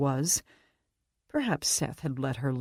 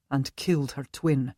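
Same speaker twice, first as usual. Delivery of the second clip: put-on Scottish accent. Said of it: "Scottish accent".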